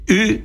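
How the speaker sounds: "U" produced between nose and throat, high and held; guttural u sound. Shown as a demonstration. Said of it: "dejé para el final la u".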